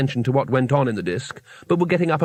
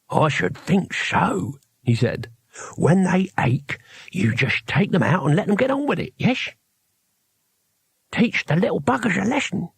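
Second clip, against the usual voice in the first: awed; 6 semitones higher than usual. A narrator's reading. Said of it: "Cohen's very voice radiated awe".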